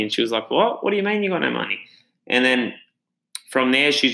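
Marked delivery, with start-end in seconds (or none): 0.5-1.8 shocked disbelief. Retold or imitated. Beck shocked he's broke.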